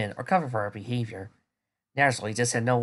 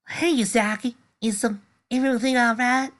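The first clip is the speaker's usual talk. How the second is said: concerned friend; 12 semitones higher, 4 dB louder than usual. Acted. Friend arriving, voiced higher.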